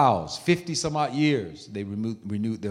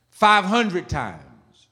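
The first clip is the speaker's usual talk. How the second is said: drawn-out count; 6 semitones higher, 3 dB louder, much slower than usual. Real, not acted. Dramatic count of repetitions.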